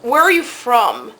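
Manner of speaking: slow, lightly imitated Italian accent. Italian counterman chats up customer, slow imitated Italian accent. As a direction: ask slowly with a hint of Italian accent. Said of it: "in this very thick Italian accent".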